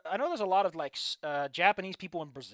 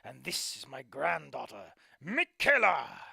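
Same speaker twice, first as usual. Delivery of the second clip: put-on slow, grand old ringmaster voice; a lightly voiced proud grandfather; old showman; 3 semitones lower, 3 dB louder, slower than usual. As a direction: present her to the crowd with ceremony. Old performer introduces granddaughter.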